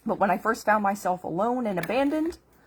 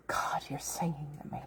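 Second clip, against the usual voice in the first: soft lower whisper, barely voiced; awed whisper; 6 semitones lower, 11 dB quieter than usual. Remembering the song in her head, she whispers to God. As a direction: breathe it out in wonder.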